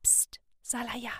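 slow unvoiced whisper. A narrator's reading. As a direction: hush her in a whisper. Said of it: "flüsterte sie".

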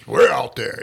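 lightly imitating a booming, projected voice. Cohost teasing the singer about his carrying voice, mock projection. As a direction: swell the words out as a mild mock projection. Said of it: "he projects his voice when he's speaking".

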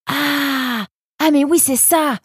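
high sudden Ah of understanding; the penny drops; realization. A narrator's reading. Nemrod realizing Mazen's scheme, sudden surprise.

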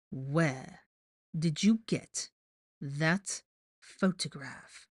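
slow, word-by-word demand with pauses; ice-cold anger. A narrator's reading. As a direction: space out each word with contained fury. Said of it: "let a little more of his anger bleed into his ice-cold voice".

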